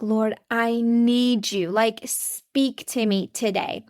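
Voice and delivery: slow, pleading prayer to the Lord; a gentle plea for God to speak. Retold or imitated. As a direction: ask God for help, slowly and earnestly.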